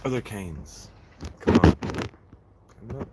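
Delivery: loud, pushy call for answers; urging shout. Real, not acted. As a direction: egg the chat on, shouting.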